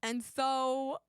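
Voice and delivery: attempted Jersey accent. Game player unsure they can manage it, trying a Jersey accent. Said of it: "I can't do a Jersey accent".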